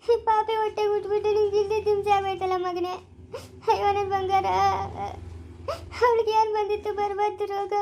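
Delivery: put-on crying lament to the baby; weeping. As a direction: sob out apologies to the child. Mother weeping over her baby. (ಮಗುವಿನ ಮುಂದೆ ಅಳುತ್ತಾ ಗೋಳಾಟ)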